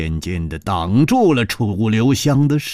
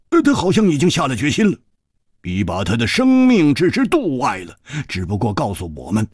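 Hu Tiehua's voice; 2 semitones higher than usual. Acted. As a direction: retell the ordeal in a hearty, aggrieved rush.

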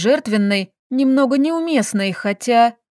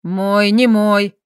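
slow, spat-out husband's words; angry spit; 3 dB louder, much slower than usual. A narrator's reading. Husband cutting off his wife: slow, angry spit. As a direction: spit it out angrily, slowly. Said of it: "зло выплюнул муж".

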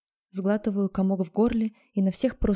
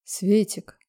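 tender; 3 dB louder than usual. Acted. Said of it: "Ласково, так нежно, после того, как рыкнул".

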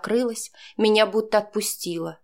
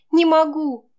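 «Не могу» shouted higher and louder; desperate cry; 8 semitones higher, 6 dB louder, slower than usual. Acted. Героиня в отчаянии кричит. (выкрикнуть «Не могу» в отчаянии)

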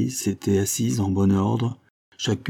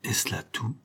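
soft, hollow, deeply wounded voice; mournful echoing voice; tragic cavernous voice; 8 dB quieter than usual. A narrator's reading. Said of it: "sur un ton réellement tragique".

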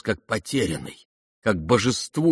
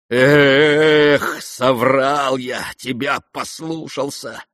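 deep remorse; 4 semitones higher, 4 dB louder, much slower than usual. Acted. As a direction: blame yourself bitterly. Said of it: "с глубоким раскаянием".

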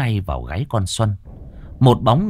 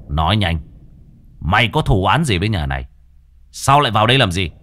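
stern demand; 3 dB louder, faster than usual. Acted. Master interrogates the ghost.

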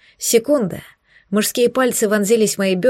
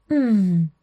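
moan. Acted. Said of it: "стонала я".

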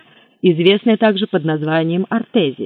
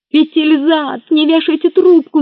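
loud, high desperate yell; 11 semitones higher, 6 dB louder than usual. A narrator's reading. O'Leary yells into the phone so the official won't hang up. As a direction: yell to stop him hanging up. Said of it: "заорал О'Лири".

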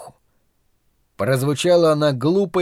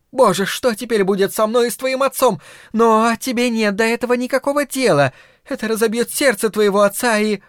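higher, self-pitying mother's wail; wailing lament; 8 semitones higher than usual.

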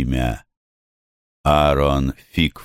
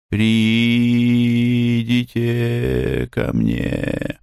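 slow divine call; 6 semitones higher, much slower than usual. Acted. Голос богини с витрины.

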